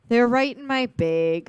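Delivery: "bag" stretched to "big" in a Brooklyn accent. Shown as a demonstration. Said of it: "I'm supposed to be doing, like, a Brooklyn accent".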